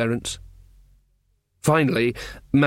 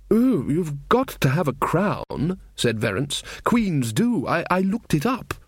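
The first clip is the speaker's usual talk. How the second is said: put-on higher, slower fussy young king; Verence's voice; 4 semitones higher than usual. King Verence scolding the trumpeter, higher, fussy. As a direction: play the earnest little king going on about pigs.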